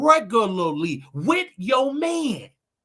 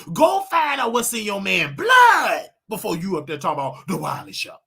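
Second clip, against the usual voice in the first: louder shout at critics; preaching shout; 4 dB louder than usual. Real, not acted. Preaching to critics of the show, loud. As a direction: call them out loudly.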